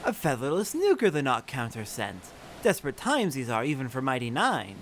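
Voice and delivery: bird-man with squawks between backward phrases; a squawking Ixal elder, mildly voiced. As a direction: squawk out each line like a proud bird tribesman. Player voices Ixal bird NPC.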